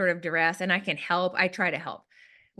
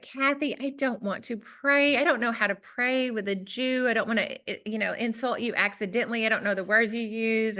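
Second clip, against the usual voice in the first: anxious reluctance; 2 semitones higher than usual. Retold or imitated. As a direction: retell squirming out of it, pitch raised. Retold reluctance to pray together.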